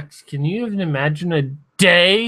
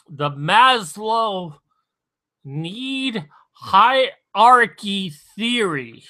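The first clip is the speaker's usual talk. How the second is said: very slurred; 4 semitones higher, slower than usual. Real, not acted. Drunk streamer explaining a theory, very slurred. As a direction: labour slowly through it, slurring. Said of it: "that came out very slurred".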